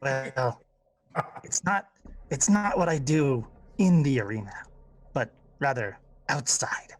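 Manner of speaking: a hint of a sly goblin, ending in a hushed whisper; lightly voiced goblin hinting at murder. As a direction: lean in and let the menace slip out. Goblin answers Slish in character.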